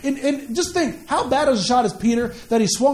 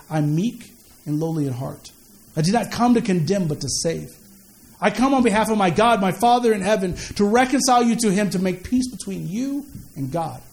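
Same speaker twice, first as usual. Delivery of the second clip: gentle Jesus voice; 4 semitones lower than usual. Acted. Jesus telling listeners he came to save. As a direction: speak it humbly and kindly.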